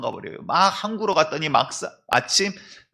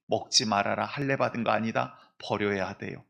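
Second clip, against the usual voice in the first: low stern command; 4 semitones lower, 3 dB quieter than usual. Acted. God's command voiced, low soft.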